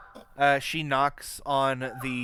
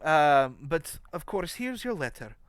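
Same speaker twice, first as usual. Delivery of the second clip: granny voice; 3 semitones higher than usual. Acted. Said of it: "Granny says".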